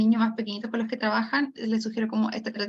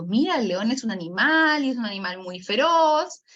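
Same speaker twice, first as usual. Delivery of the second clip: "león", "animal" and "feroz" stretched with rising swells; emphasis on key words. Shown as a demonstration. Teacher defining a lion for small children, emphatic key words. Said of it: "la que yo quiero hacer el énfasis".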